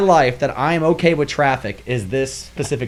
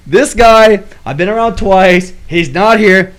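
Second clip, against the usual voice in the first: annoyed rant; 2 semitones higher, 7 dB louder than usual. Retold or imitated. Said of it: "now I'm pissed".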